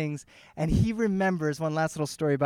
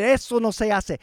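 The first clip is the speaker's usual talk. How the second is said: mild retold scolding, slightly raised; retold yelling; 4 semitones higher, 4 dB louder than usual. Brother scolding his nephew, mild mock yell. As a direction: tell him off in a mock yell. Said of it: "he started yelling at my son".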